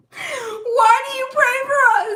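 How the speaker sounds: very high, loud squealed imitation; high-pitched wailing impersonation; mock wail. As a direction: squeal their question back in mock disbelief. Mocking their question, repeated for laughs.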